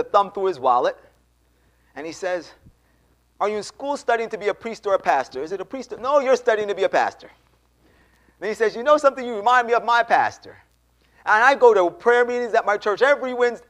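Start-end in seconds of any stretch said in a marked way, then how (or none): 3.4-13.7 high, loud, eager retold chatter; rambling excitedly. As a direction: go off on an excited tangent as the man at the door. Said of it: "this guy was going off in a tangent".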